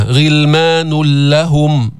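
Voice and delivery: غلمان لهم with the final n absorbed into doubled ل; idgham without ghunna. Shown as a demonstration. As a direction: recite غلمان لهم as ghilmanul-lahum. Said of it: "ما في نون". (إدغام غلمان لهم بلام مشددة بلا نون)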